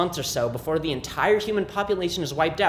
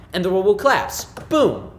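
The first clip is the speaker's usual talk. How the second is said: louder, punchy doom announcement; dramatic doom proclamation; 4 semitones higher, 5 dB louder than usual. Acted. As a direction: proclaim the catastrophe with a bang. Comic monologue announcing the world's collapse.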